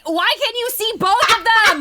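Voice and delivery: high, loud disbelieving cry; real exasperation at an absurd sight; exasperated outburst. Real, not acted. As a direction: exclaim it in loud, baffled disbelief. Exclaiming over absurd drawing.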